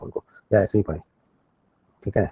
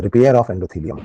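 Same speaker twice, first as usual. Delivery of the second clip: slow dictation; 3 dB louder, much slower than usual. Shown as a demonstration. Teacher spells out a key term.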